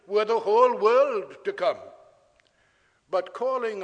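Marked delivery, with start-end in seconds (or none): 0.1-1.8 loud, ringing preacher's proclamation; full-voiced pulpit emphasis; emphatic preaching. Real, not acted. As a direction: lift the voice and proclaim it.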